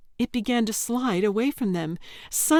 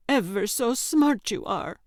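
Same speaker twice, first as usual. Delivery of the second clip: sneering; 4 semitones higher than usual. Acted. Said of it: "Yelda sneered".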